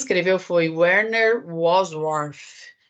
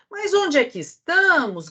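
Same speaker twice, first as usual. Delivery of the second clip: shout; 9 semitones higher than usual. A narrator's reading. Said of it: "gritou a pequena topeira".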